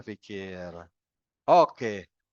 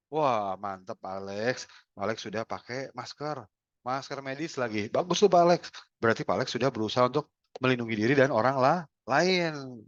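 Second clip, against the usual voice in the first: appreciative praise. Retold or imitated. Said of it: "kalau kita apresiatif".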